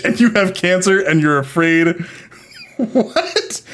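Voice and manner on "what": stunned what. Real, not acted. Shocked by the AI's insults.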